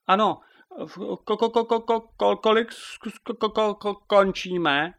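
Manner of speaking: high, stuttering cluck; clucking hen. A narrator's reading. (kdákavé koktání slepice)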